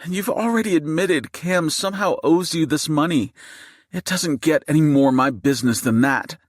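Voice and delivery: high-pitched indignant fury; heated retort. A narrator's reading. Mother tells gunman this is her business, furious. Wife argues back at gunman.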